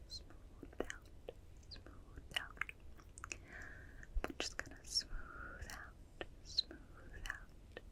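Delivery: slow whispered repetitions, evenly spaced; whispered trigger words. Pretend. Examiner smoothing a human's brow, hypnotic ASMR whisper. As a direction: stretch each whispered word like a soothing stroke.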